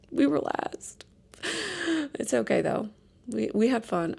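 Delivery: whispered confession; whispering. Real, not acted. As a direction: whisper it sheepishly. Whispered admission, laughing.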